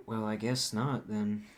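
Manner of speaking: unsure no, the way he actually said it; tentative. Shown as a demonstration. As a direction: trail into a reluctant maybe-no. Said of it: "I said no, but I didn't say no".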